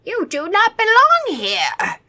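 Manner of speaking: high, loud, slow vampire boom. A narrator's reading. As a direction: boom it like an outraged old vampire. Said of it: "the old vampire boomed".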